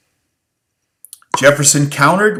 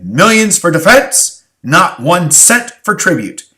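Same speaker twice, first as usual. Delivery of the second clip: proclaimed slowly and louder, like a rallying cry; slogan; 4 semitones higher, 5 dB louder, slower than usual. Pretend. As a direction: declaim it as a patriotic slogan. Slogan called out.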